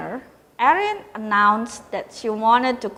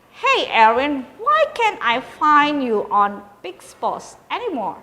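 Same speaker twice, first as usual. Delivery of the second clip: innocent-sounding question; 5 semitones higher, 4 dB louder than usual. A narrator's reading. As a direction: fake innocence, light and sweet. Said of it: "made it sound like a perfectly innocent question".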